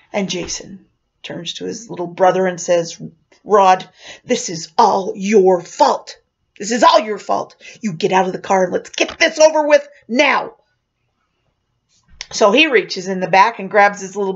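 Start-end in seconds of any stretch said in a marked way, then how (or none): 3.4-10.6 emphatic, punched-out blame; imitated angry scolding. Jason blaming his little brother Rod, angry. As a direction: hammer the key words, building to the last.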